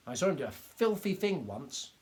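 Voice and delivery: lightly voiced indignant little doctor. A narrator's reading.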